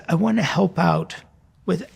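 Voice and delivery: ordinary talk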